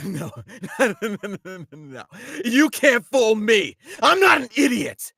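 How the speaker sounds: scoffing laugh building to a loud accusation; accusatory, exasperated. Acted. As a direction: laugh off the excuse, then shout it high. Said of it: "very accusatory here and wants answers, very exasperated".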